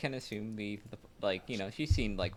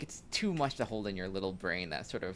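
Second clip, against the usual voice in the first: dopey cartoon bellow; 4 semitones lower, 7 dB louder than usual. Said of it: "you're really going for, like, the dumb brute".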